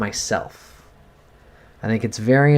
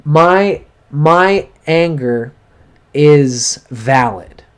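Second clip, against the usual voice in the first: asserting anger; 2 semitones higher, 4 dB louder, much slower than usual. Shown as a demonstration. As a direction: claim your anger slowly and firmly. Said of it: "Allow yourself to express that anger".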